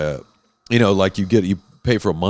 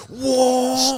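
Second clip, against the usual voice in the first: mock whoa. Retelling speeding away.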